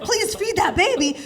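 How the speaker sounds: high, slow comic begging; mock pleading. The body voiced as pleading.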